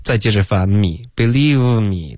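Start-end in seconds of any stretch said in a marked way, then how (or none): 1.2-2.2 lips round the V of believe before me; believe me with the V slackened into a rounded W-like glide; "believe me" with a sloppy, lip-rounded V; wrong believe me. Shown as a demonstration. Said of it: "这样。 可是这是一个错误".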